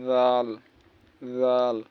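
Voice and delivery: জাল with a soft z sound; soft zal. Shown as a demonstration. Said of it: "এটা আসলে নরম হয়". (নরম করে জাল)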